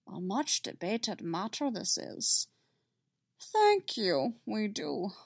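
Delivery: a hint of the old Jedi master; lightly voiced Yoda. Yoda addressing Lady Skywalker, softly.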